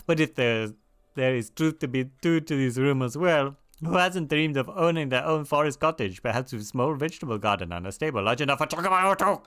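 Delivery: lively, badly faked French accent; crappy French accent. Quest giver dreaming of a forest cottage, crappy French accent. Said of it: "doing this particular French accent".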